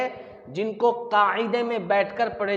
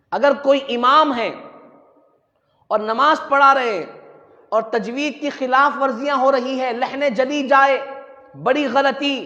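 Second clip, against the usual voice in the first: emphatic sermon warning; raised preacher's voice; forceful preaching; 3 semitones higher, 5 dB louder than usual. Real, not acted. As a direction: lay down the rule to a congregation.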